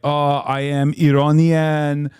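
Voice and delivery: mock Iranian accent, lightly exaggerated; Iranian accent impression. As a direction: mimic an Iranian uncle's accent, playful. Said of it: "I can do a pretty good Iranian".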